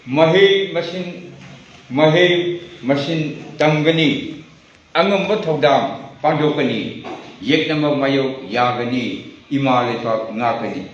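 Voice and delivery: slow, stretched opening words, declaimed; deliberate poetry reading; poem recitation. Acted. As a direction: draw out the verse like a pledge.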